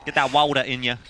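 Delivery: put-on American "water"; wandering American accent. Shown as a demonstration. Co-caster plays with the word, mock American accent. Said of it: "Those accents just jumped all around America".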